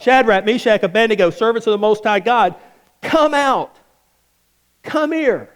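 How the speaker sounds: calling out, rising high on "come out"; a king hollering into the furnace; retold royal shout. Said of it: "and he shouted".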